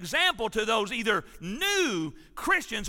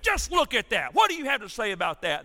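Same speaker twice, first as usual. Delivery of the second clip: mad church member; 3 semitones higher, 4 dB louder than usual. Retold or imitated. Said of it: "This guy was mad".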